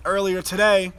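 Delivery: ordinary delivery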